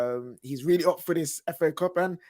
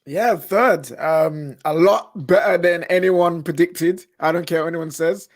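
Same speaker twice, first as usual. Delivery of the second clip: proud loud; 8 dB louder, slower than usual. Real, not acted. Proud United fan boasting.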